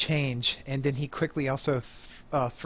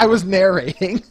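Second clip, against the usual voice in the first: loud, high protest through laughter; laughing protest; 5 semitones higher, 12 dB louder than usual. Real, not acted. Game master interrupted mid-narration, protesting with a real laugh. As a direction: protest loudly while cracking up.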